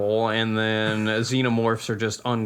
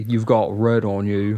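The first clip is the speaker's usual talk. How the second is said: impression; 2 semitones lower, slower than usual. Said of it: "he was like".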